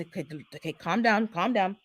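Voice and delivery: soft, low soothing voice; gently calm a nervous worker down; hushed reassurance to the sprayer man. Retold or imitated. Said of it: "get my voice down to the hip, you know, the, the pitch".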